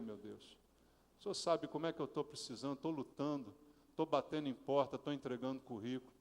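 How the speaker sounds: soft, low, earnest prayer voice; hushed personal prayer; intimate prayer. Shown as a demonstration. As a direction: pray it quietly as if alone with God. Models a heartfelt prayer.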